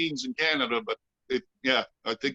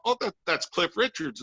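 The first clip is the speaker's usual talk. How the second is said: higher-pitched, lightly attempted Scottish accent; 6 semitones higher than usual. Scottish bandsmen telling a bandmate who the star is, lightly imitated Scottish accent. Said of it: "attempt a, uh, Scottish accent".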